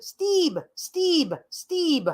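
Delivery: high squawky parrot calling Steeb. Retold or imitated. Imitating the parrot calling for its favorite person, high. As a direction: mimic a parrot crying Steeb, each call falling. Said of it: "that's how he pronounced it".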